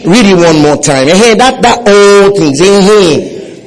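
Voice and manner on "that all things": "all" stretched out with emphasis; stress on "all". Shown as a demonstration. Preacher coaching congregation's reading, heavy stress on "all". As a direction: lean hard on "all" and hold it. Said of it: "Put emphasis".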